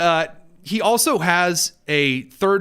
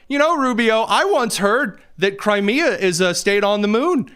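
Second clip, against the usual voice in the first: mocking the interviewer; 6 semitones higher than usual.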